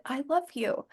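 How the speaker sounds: mock whisper. Dad retelling the ghostly whisper in his ear, hushed. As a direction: hush the words like a ghost's whisper. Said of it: "I heard a whisper in my ear".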